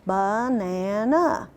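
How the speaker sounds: slow, chopped into three beats; syllable-by-syllable banana. Shown as a demonstration. Teacher modelling for trainees, slow and chopped. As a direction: tap out each syllable slowly for the class. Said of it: "Just go ahead and try it".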